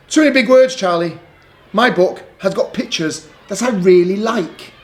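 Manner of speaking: fussy little sister; complaining Lola. Acted. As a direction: push the book away like a fussy child.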